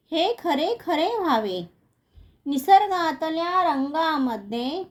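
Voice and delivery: measured, singsong verse reading; lilting schoolroom poem reading; poem recitation. Acted. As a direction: recite line by line, drawing out the line endings.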